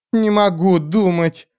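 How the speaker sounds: complaining creature. Acted. Telorast complaining she cannot think, high whine. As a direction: whine it like a frightened little creature. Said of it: "пожаловалась Телораст".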